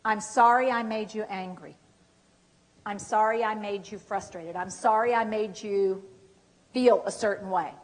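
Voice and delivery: soft, measured apology; sincere apology. Shown as a demonstration. Coach modelling an apology for caregivers to repeat, sincere. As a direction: own the hurt gently and quietly.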